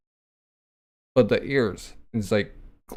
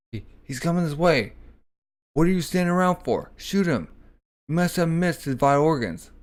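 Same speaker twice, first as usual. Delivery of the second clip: higher, urgent mock order to shoot; alarmed officer; 5 semitones higher than usual. Officer urging his men to shoot the approaching Dio, higher pitched. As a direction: bark the order in a panic.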